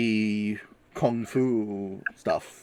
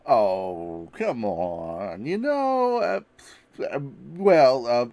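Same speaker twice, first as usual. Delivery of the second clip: nervous stammer; 3 semitones higher, 4 dB louder, slower than usual. Acted. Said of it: "he's stammering a little nervously".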